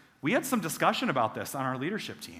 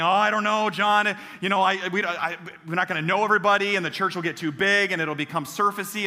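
louder, higher fretful objection; mock worried member; 3 semitones higher, 3 dB louder than usual. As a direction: imitate anxious members resisting change. Voicing worried church members.

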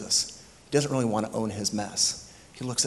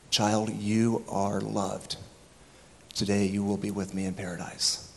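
tender. Retold or imitated. Jesus's words retold tenderly.

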